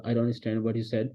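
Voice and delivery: slow, careful English line; teacher modelling a polite phone reply, slowly; slow polite demo. Shown as a demonstration. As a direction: say it slowly so students can copy. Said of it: "English में बोलना आपने".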